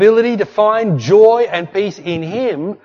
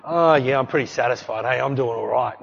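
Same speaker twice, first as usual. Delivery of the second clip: complacent; 5 semitones lower, 4 dB quieter than usual. Shown as a demonstration. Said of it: "Complacent is like".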